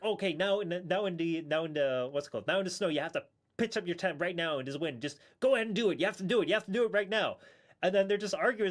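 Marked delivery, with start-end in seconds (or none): 0.0-7.4 loud, pushy orders, higher and louder; mock shouting trainer. Trainer shouting at the presenters in the snow, loud and bossy. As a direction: bark orders to pitch the tent now.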